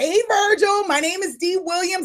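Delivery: fired-up calling voice. Speaker demonstrates how to introduce yourself on a call: excited caller. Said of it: "I'm calling with excitement".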